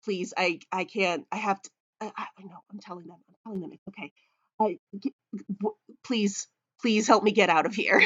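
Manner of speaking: frantic, stumbling pleas, words tripping over each other; a nervous little sheep begging for help; anxious sheep. Acted. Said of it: "glances around anxiously".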